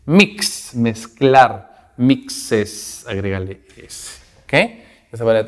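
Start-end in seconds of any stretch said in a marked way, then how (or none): 2.0-3.1 "mixes" in two distinct syllables, the added E fully sounded; clear ES ending. Shown as a demonstration. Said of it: "la E que suene fuerte y claro".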